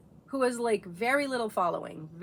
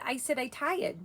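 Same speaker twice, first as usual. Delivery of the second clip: put-on little girl; 5 semitones higher than usual. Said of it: "She said".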